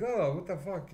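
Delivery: high, loud retold shock; shocked exclamation. Retelling his shock at the milk, a high loud yelp. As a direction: yelp it like milk just hit your mouth. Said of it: "I was like".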